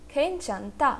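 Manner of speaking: खेंचंथा syllable by syllable, खेन-चन-था; pronunciation demo. Shown as a demonstration. Teacher models the whole word, sounding out खेंचंथा by syllable. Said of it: "पूरे word का pronunciation क्या हुआ".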